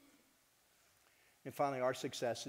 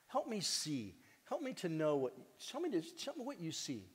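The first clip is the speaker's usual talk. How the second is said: gentle asking; 4 semitones higher than usual. Pretend. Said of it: "sit down and say".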